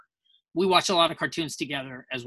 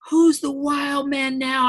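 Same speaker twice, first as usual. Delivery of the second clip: much higher, slow, drawn-out triumphant cry; Favreau movie line; 10 semitones higher, 5 dB louder, slower than usual. Retold or imitated. Actor quotes Jon Favreau's line from Rudy, slow triumphant. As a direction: call it out like the coach cheering. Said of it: "Jon Favreau goes".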